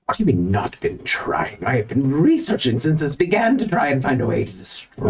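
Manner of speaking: a touch of affronted researcher; lightly voiced, defensive scholar; indignant library dweller. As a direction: protest your hard work, mildly indignant. Library dweller answers an accusation.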